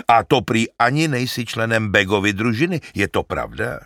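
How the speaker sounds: put-on old shepherd. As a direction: praise him like a simple herdsman. Narrator voices the shepherd.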